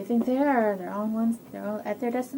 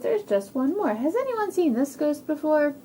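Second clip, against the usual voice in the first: raised, loud storybook question; excited Toad; 6 semitones higher, 5 dB louder than usual. Acted. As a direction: ask the whole party eagerly as Toad. Toad asks the party.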